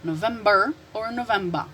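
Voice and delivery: November with final R, then November ending in "ba"; American then British pronunciation. Shown as a demonstration. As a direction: contrast both endings of November. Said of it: "decide the way you want to pronounce".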